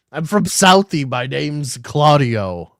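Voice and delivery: a bad pretend Boston tough-guy voice, stretched out slow at the end; Boston accent attempt, done badly on purpose; mock Boston accent. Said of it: "I can't do a Boston accent".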